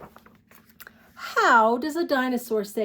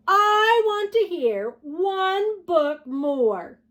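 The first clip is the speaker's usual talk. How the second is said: higher, louder, slow whiny plea; mock whiny demand; 8 semitones higher, 5 dB louder, slower than usual. A narrator's reading. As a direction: play the dinosaur begging for more. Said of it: "stomp his feet on the floor and shout".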